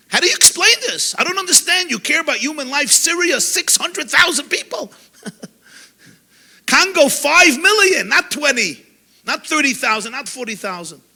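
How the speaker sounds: pitched high, pleading disbelief; exasperated outburst. Acted. Rabbi asks his audience in disbelief, high and pleading.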